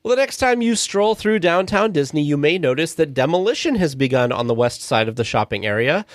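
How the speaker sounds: scripted podcast news item; lightly polished announcing; news read. Acted. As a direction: read the copy smoothly to listeners. Reads a scripted news segment.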